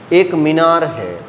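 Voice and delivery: slow, deliberate statement; धीरे-धीरे समझाते हुए. Real, not acted. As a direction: spell it out slowly for students. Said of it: "धीरे धीरे बोल रहा हूँ". (धीरे-धीरे, ठहरकर)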